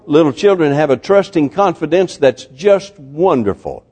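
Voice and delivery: ordinary delivery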